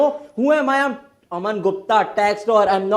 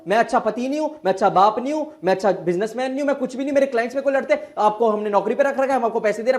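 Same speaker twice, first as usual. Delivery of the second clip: despairing rant; 5 semitones higher, much faster than usual. Acted. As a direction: spill it all out in despair. Lawyer breaks down venting. (हताशा में ऊँची आवाज़ में फूट पड़ना)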